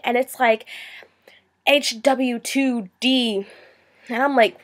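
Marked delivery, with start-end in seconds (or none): 1.7-3.5 "H W two D" whispered letter by letter, slow; spelled-out text slang. Retold or imitated. Mocking texted slang abbreviation.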